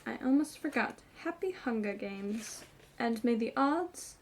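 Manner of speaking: lightly put-on Capitol accent, a touch chirpy; bad Capitol accent. Reader imitates Gale mocking Effie, light Capitol accent. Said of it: "Sorry for that horrible accent there".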